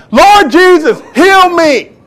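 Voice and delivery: high, loud desperate cry; screaming out. Retold or imitated. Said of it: "He screamed out even more".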